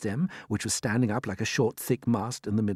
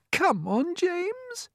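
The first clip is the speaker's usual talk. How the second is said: coaxing; much slower than usual. Acted. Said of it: "coaxing him".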